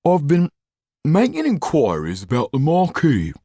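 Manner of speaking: high, halting talk through food; mouth full. A narrator's reading. Didier reports on the Marquis while eating, mouth full. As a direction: talk round a big mouthful of bread. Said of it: "started to speak with his mouth full".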